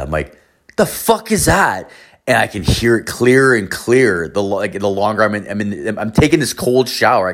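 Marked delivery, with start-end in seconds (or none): 0.8-1.9 high, drawn-out cry of disbelief; startled disbelief. Retold or imitated. Man in the shower startled by strange voices, high startled disbelief. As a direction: retell a startled yelp, pitched way up.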